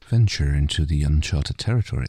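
a knowing, suggestive read. Acted. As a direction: let the phrase sound loaded. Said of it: "When you say it like that".

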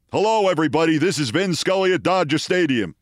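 imitating an actor's terrible sportscaster impression; hopelessly unconvincing play-by-play mimicry; Walter Matthau. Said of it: "It sounded exactly like Walter Matthau".

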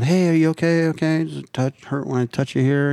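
lightly voiced paramedic checking on a patient; imitating a medic on scene; paramedic mode. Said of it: "I went into fucking full paramedic, paramedic mode".

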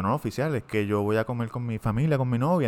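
soft, polite, innocent; softly retold innocent plea; meek explanation. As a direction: play it calm and respectful for the officer. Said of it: "Y yo".

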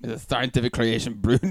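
Russian accent slipping toward German; quick, botched Russian accent; failed Russian accent. Shown as a demonstration. Host retries the label reading, botched Russian accent. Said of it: "It's more German".

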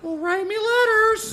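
slow, high falsetto; mock wife.

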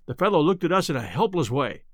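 ordinary talk

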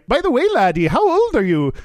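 high, sing-song Irish leprechaun; Irish accent. Acted. Leprechaun stopping to ask the man's age, high Irish accent. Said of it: "an Irish voice".

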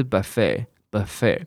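"buffet" as buh-FAY, end stressed; American pronunciation. Shown as a demonstration. Teacher contrasting it with British, "buffet" as buh-FAY. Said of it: "是不是跟buffet听起来有点差别".

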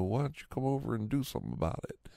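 goading, imitated porch yell without much volume; retold challenge. Man daring neighbor from his porch, retold challenge. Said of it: "I'm just yelling off my porch".

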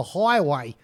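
put-on Australian accent. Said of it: "in an Australian accent".

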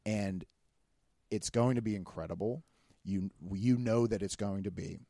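heartfelt, measured and unhurried; opening up sincerely. Real, not acted. Friend telling friend he is proud, opening up sincerely. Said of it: "This is just me opening up".

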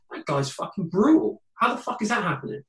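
retelling a coworker's promotion with mock outrage; incredulous. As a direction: scoff in outraged disbelief at the promotion. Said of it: "you're like".

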